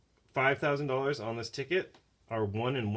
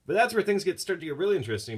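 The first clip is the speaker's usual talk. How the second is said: excited build-up; 8 semitones higher, 6 dB louder, faster than usual. Real, not acted. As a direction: voice jumps up, eager to tell. Building suspense in story.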